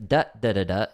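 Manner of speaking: sing-speak the drum hits as short syllables; "da" for each stroke, in rhythm; vocalized drum rhythm. Shown as a demonstration. Drum teacher voicing the simpler hand pattern to a student, vocalized rhythm. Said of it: "instead of ... you're playing".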